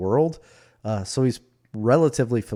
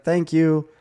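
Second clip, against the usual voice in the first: Will Ferrell; 6 semitones higher, 5 dB louder than usual. Retold or imitated. Retelling Will Ferrell's line after the guy dies, comic imitation. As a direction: imitate him, pitched up and slowed toward the end. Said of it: "And then Will Ferrell's like".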